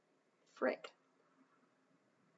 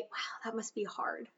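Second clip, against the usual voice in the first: supportive; 12 dB quieter than usual. Shown as a demonstration. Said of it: "we say".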